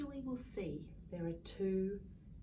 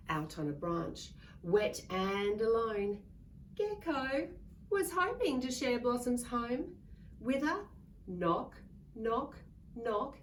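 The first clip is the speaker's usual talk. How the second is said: storybook reading; 3 semitones higher, slower than usual. A narrator's reading. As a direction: read it big for a room of children. Reading picture book to children.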